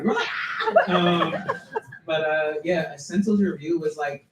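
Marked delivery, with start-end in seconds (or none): 0.9-0.9 brief mock scream; retold excited scream. Poet re-enacts screaming in front of everybody, brief mock scream. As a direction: imitate screaming with a friend. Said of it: "we screamed in front of everybody".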